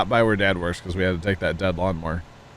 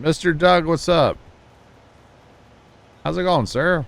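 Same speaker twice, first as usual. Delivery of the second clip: much higher, bright hello to a viewer; cheery greeting; 8 semitones higher, 4 dB louder than usual. Real, not acted. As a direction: call out a happy welcome. Greeting a chatter by name.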